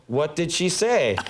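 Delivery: slow, over-deliberate question; pretend line-reading. Actor answering in fake rehearsal, slow stagey reading. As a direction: act it like scripted dialogue. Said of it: "pretend like I was running lines".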